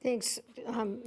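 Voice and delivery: hoarse, fading voice; losing voice. Real, not acted. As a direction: talk through a failing voice. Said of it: "I'm losing my voice here".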